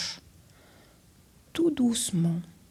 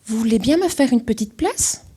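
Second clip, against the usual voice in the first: Alfred asking; 4 semitones higher, 6 dB louder than usual. Acted. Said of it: "Demande Alfred".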